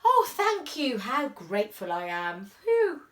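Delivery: a lightly voiced, breathless grateful mother. Mother thanking the dad, lightly voiced and relieved. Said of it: "The mother says".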